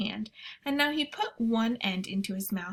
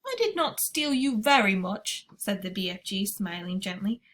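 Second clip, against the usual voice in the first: giant BFG voice. Acted. BFG speaks in story.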